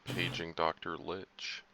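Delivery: slow, formal paging announcement; hospital pager voice. Pretend. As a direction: page the doctor slowly over the speaker. Calling over a pager.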